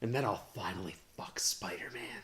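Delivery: low, soft mock confession; a hint of a sheepish villain; lightly voiced Electro. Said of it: "she's like".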